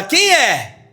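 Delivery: put-on curious young woman; high girl's question. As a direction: ask like the startled girl at the door. Girl answering door in story.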